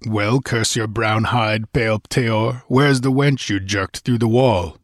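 lightly voiced angry barbarian; a hint of a defiant warrior; barbarian hero voice. Voices Conan confronting foe.

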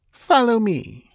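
high, slow command; directing. Acted. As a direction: lead them on slowly. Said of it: "she directed".

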